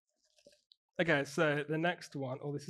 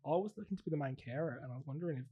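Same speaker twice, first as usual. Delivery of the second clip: casual put-on Aussie accent; Australian accent. Teaching assistant asking recruiter about fostering, Australian accent. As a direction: play an Australian making an enquiry. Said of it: "I'm actually from Australia".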